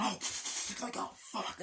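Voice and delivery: high breathy panic, imitating a soldier; mock panicked soldier. Retelling a war film, mock panicked yelp. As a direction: toss it off like a scared grunt.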